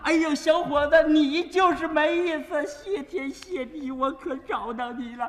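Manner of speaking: lightly voiced grateful old woman; a touch of an old granny thanking him, slowing down; old lady. Old woman thanking the man for saving her husband, lightly voiced. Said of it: "有个老太太又搭腔了".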